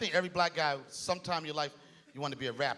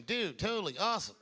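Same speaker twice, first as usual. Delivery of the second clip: white guy voice; 3 dB quieter than usual. Retold or imitated. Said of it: "The white voice".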